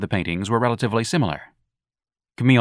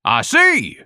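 very high, loud scream; outraged high-pitched cry; 6 dB louder than usual. Acted. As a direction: shriek it triumphantly. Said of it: "Ignatius screamed".

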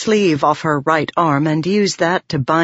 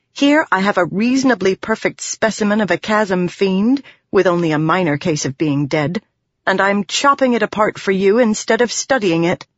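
lightly voiced heroine, a bit higher; dry complaint in a lightly raised character voice; wry young heroine; 4 semitones higher than usual. Voices Shallan in story.

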